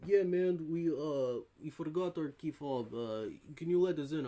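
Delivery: lightly put-on Russian accent; imitated Russian guy. Russian guy asks pool worker to let them in, imitated Russian accent. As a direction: plead with a hint of Russian accent. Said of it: "the Russian guy was like".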